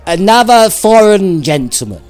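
high silly voice. Acted. High comic character voices.

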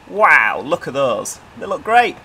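excited. Real, not acted. Admiring new trains.

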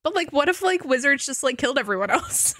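mock innocent musing. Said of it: "me sitting here going".

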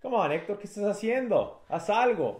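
high, exasperated urging at the fighter; frustrated pleading. Acted. Fan pleading with his fighter, exasperated.

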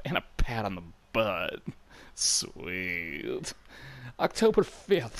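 a lightly voiced tough sniper writing his log; gruff soldier voice. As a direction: read the diary as a bored, cocky guard. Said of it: "concentrating on not forgetting how to do that voice".

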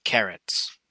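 hushed "Carrots" as a title; breathy title whisper. A narrator's reading.

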